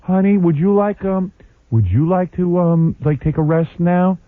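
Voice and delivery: slow, smiling, overly sweet husband; sugary with a big smile; smiling sweetness. Retold or imitated. Husband offering wife rest, slow smiling sweetness. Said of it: "I had a big smile on my face".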